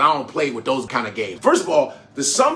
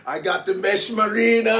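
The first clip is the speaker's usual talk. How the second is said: laughing; 7 semitones higher than usual. Real, not acted. Laughing about the mesh marina.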